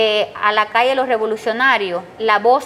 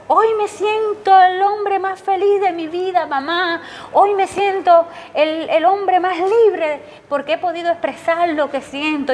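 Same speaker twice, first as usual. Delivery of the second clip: son's elated outburst; 5 semitones higher than usual. Retold or imitated. Son telling his mother about the protest, high and moved. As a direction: speak it up high and stirred, like a young man freed. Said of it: "él me dice".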